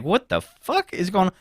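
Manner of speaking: high, slow, puzzled voice; retold confusion. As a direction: act baffled at a strange noise. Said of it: "I'm like".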